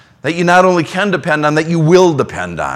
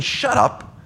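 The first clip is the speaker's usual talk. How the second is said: higher, laughing brush-off from a friend; friend's playful "shut up"; 7 semitones higher, 5 dB quieter than usual. Retold or imitated. Friend laughing off a favor request, playful. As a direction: toss it off like a buddy who won't hear thanks.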